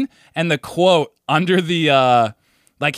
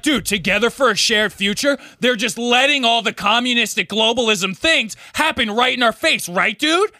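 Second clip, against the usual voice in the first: mock friend; 7 semitones higher than usual. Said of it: "He literally was just like".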